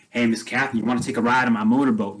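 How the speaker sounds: fast, taunting spoiled-brat imitation; a light imitation of the spoiled rich kid showing off; mock spoiled rich kid. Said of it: "this mimicking, spoiled rich kid".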